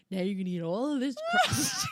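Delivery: laughing mock shout at the kid; a half-laughing threat; playful stern command; mock stern mom. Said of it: "I'm like".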